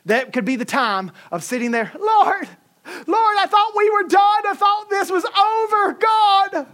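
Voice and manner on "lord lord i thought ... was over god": high, loud desperate shout; mother crying out as she wakes in blood, high panicked shout; panicked cry to God. Retold or imitated. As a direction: cry out in terror to the Lord.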